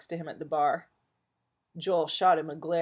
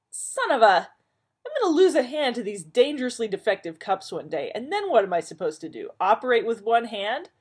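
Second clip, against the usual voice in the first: loud, high yelp of pain and outrage; burned and cursing; 6 semitones higher, 8 dB louder than usual. Acted. Man burned by coffee, loud furious rant. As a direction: curse the defective cup. Joel burns his hand, swearing.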